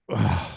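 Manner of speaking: mock groan of annoyance; exasperated groan. Tired dad called back by his child, exasperated groan. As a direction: groan as if fed up.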